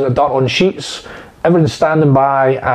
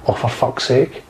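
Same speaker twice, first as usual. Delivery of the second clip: soft resigned oh for fuck's sake; quiet fed-up swear; muttered curse; 3 semitones lower, 6 dB quieter, slower than usual. Retold or imitated. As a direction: grumble it under the breath. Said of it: "it wasn't a screaming".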